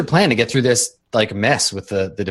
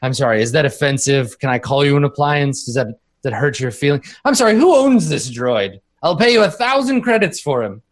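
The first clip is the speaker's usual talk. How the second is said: blustering bigwig, rising higher as he goes; pompous rich minister; 3 semitones higher than usual. Acted. Rich minister bidding to buy someone's droid, pompous. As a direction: make a lofty, showy offer for a droid.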